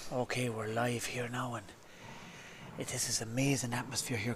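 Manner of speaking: nervous, very hushed half-whisper, barely above breath. Nervous presenter going live on air, half-whispering. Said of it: "You're whispering".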